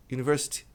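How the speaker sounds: university without the final I sound; university as Brazilians often say it; wrong pronunciation. Shown as a demonstration. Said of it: "A maioria das pessoas diz university". (pronúncia errada de university)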